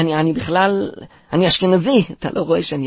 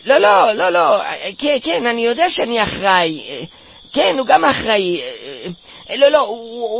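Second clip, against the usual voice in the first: panicked excuses; 4 semitones higher than usual. Acted. Panicked excuses to angry mother. (תירוצים בפאניקה בקול גבוה)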